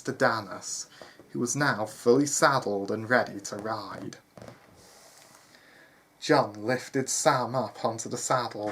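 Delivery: measured storyteller delivery; story narration. A narrator's reading. Narrator telling listeners of John leaving the manor, story narration. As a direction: read it out as a tale.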